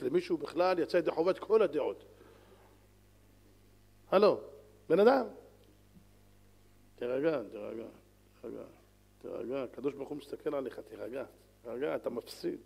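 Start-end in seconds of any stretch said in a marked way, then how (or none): 4.1-5.3 raised call to snap someone out of it; louder call for attention. Acted. Preacher addressing an angry man, calling out loudly. 7.0-12.6 soft, lower calming voice; calm him down gently; soothing. Acted. Preacher calming an imagined angry man, soft and soothing.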